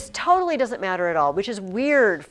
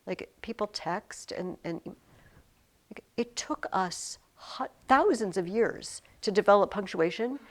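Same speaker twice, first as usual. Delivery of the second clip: mom speech. Acted. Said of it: "I'll give the little mom speech now".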